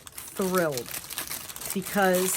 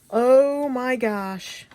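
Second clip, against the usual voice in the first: amazed; 4 semitones higher, 4 dB louder, much slower than usual. Real, not acted. Reacting to paper pages.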